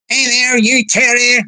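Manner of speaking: lightly trilled man's voice; Boss Hog. Retold or imitated. Retelling Boss Hog's shout-out, lightly trilled. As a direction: imitate his trill, lightly. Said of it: "He trilled, he trilled, his voice trills".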